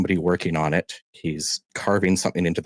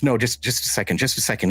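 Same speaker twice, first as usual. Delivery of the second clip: slightly higher-pitched, hasty plea for a moment; hurried stalling; 5 semitones higher, faster than usual. Acted. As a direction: stall him, a touch flustered. Tinkerer puts off impatient farmer.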